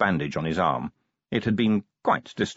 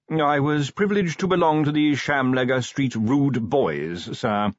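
primly; 9 semitones higher, 3 dB louder than usual. A narrator's reading. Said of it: "said the butler primly".

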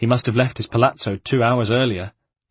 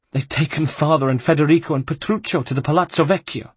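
higher, anguished rush of news; distressed; 6 semitones higher than usual. Acted. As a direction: break down telling the worst. Sister blurts the worst news.

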